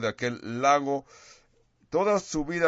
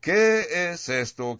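astonished; 6 semitones higher, slower than usual. Acted. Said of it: "se asombraban de tal manera que discutían".

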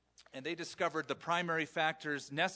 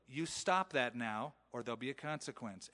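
calm firm warning; 3 semitones lower than usual. Shown as a demonstration. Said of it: "You should just calmly say".

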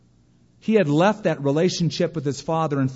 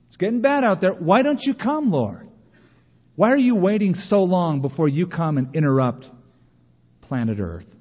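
higher, pressing questions to heaven; impatient plea to the Lord; 5 semitones higher, 3 dB louder than usual. Retold or imitated. Believer asking the Lord why he waits, impatient and pitched up. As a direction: urge the Lord to hurry up and come.

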